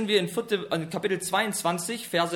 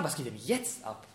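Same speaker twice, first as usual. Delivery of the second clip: baffled; 6 semitones lower, 7 dB quieter than usual. Retold or imitated. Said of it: "Er müsste doch fragen".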